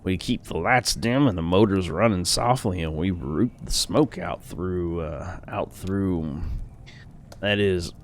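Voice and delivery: lightly voiced startled old man; a hint of a rambling old man. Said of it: "Let me get my old man voice".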